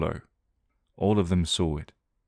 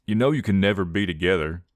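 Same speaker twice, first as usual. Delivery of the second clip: obstinate. Acted. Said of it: "Johnny said obstinately".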